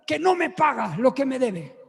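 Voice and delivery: lightly voiced aggrieved señora; mildly indignant retold grievance; indignant woman. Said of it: "Y me dice".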